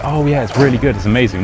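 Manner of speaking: gushing praise. Acted. Speaker mimicking the praise Brits avoid, mock gushing. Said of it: "So we don't say".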